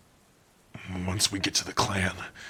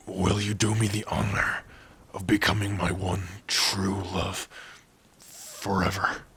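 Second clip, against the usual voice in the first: tender proposal. Acted. The proposal question.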